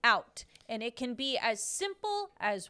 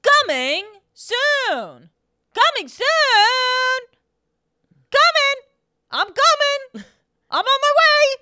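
very high, very loud, slow yell; shrill shouting; 13 semitones higher, 14 dB louder, slower than usual. Acted. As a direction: scream it out high. Playing on the trailer line.

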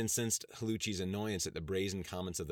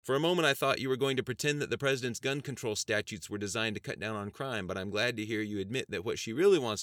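triumphant counter; 5 semitones higher, 5 dB louder than usual. Acted. Congressman counters.

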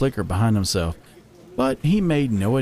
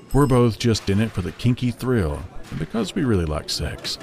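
lightly voiced, relaxed male character; unbothered husband; 2 semitones lower than usual. Isaiah's reply, voiced.

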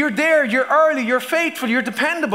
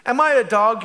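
mild mock roar. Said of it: "he roared at David".

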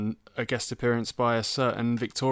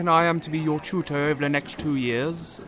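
hammed-up college tutor; teacher voice; 5 semitones higher than usual. Plays tutor Mike in skit.

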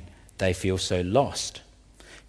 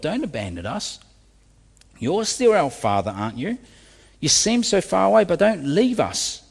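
begging plea; 4 semitones higher than usual. Retold or imitated. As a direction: plead gently, then lift into urgency. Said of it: "they're pleading, begging God".

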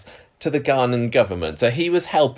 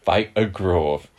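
slower second go at a Geordie accent, leaning into the vowels; retry the Geordie accent, slower and more committed; 3 semitones lower, slower than usual. Shown as a demonstration. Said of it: "I can't do a Geordie accent".

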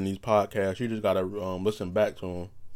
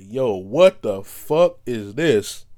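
disgusted surprise; 6 dB louder, much slower than usual. Retold or imitated. Reacting to retweets.

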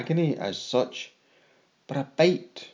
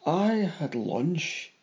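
slow confused question; 3 semitones higher, 4 dB quieter, slower than usual. Acted. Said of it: "I asked".

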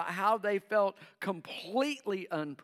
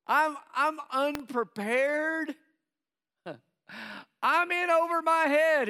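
high panicked pleading; 8 semitones higher, 4 dB louder than usual. Retold or imitated. Voicing overwhelmed believer's inner panic.

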